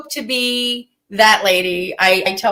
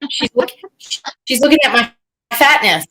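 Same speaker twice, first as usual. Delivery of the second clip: mock whine. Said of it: "She's like".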